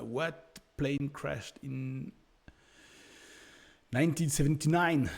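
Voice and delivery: English with a heavy French accent, slow and halting; strong French accent. Real, not acted. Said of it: "j'ai un accent anglais trop fort". (anglais avec un fort accent français)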